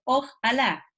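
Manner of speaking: "ojalá" said as oj-alá, stressed on LÁ; split into parts. Shown as a demonstration. Explaining the name for God, "ojalá" split as oj-Alá. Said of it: "le dan a Dios".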